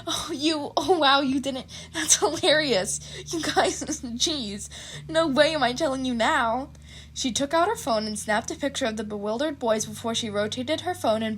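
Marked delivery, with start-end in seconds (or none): 0.1-6.7 put-on laughing girl voice. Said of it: "she burst out laughing".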